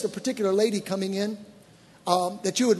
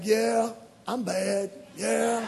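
slow, cocky, joking swagger; mock swagger; 3 dB quieter, much slower than usual. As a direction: savour it like a proud kid, slowly. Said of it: "I'm like".

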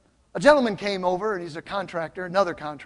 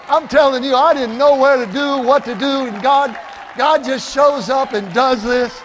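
loud, raised preacher's shout; fervent testifying; 5 semitones higher, 8 dB louder than usual. Retold or imitated. Pastor telling contractor how God shows up, fervent testifying. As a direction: build each phrase at full preaching force.

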